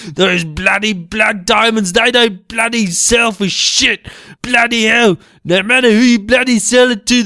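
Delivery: hammed-up outraged grumbling; ranting. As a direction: rattle off the complaint in a huff. Ongoing comic rant.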